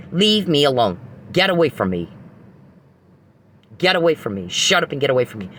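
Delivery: mock her screaming 'get away from me'; retold yelling. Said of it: "yelling at him".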